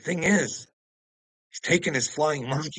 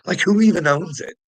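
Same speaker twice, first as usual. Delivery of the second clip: higher, loud mocking whine; hammed-up narcissist, higher and louder; 6 semitones higher, 8 dB louder than usual. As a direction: parody the smug owner's question. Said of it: "That's what a little narcissist would do".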